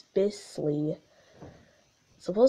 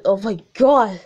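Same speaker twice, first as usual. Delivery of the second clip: deep voice; 4 dB louder than usual. Retold or imitated. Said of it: "Gumball said in a deep voice".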